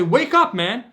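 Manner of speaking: grab him by the shoulders with your voice; shaking them awake. Acted. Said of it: "take 'em and shake 'em and say".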